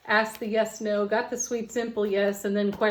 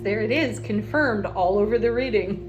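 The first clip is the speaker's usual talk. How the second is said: louder, delighted exclamation; real delight; 3 semitones higher, 5 dB louder than usual. Real, not acted. Card reader seeing the reading confirmed, delighted. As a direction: gush loudly over welcome news.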